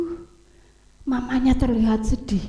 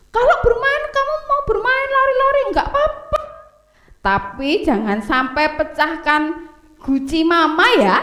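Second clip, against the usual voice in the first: high, gentle mother's voice giving a rule; mama's warning; 5 semitones higher than usual. Acted. Mama warns her two boys before leaving, high and gentle. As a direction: sing it up high like a kind mama.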